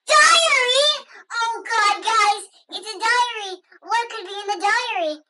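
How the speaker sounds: high excited shout. Pretend. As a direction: cry out with excitement at the find. Finds the diary.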